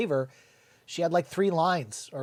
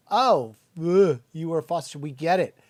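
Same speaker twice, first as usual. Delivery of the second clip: louder, exasperated mock groan, then we get it; mocking eye-roll; 5 dB louder than usual. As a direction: roll your eyes at the foster-child line. Mocking eye-rolling reply.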